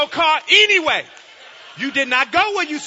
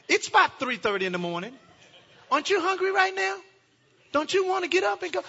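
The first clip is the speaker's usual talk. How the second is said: coaxing wife; 5 dB quieter than usual. Retold or imitated. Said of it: "She'll say".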